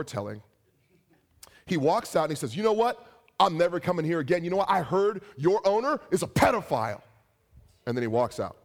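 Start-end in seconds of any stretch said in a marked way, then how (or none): 2.6-7.0 indignant parting shot. Retold or imitated. Retelling customer's angry parting shot.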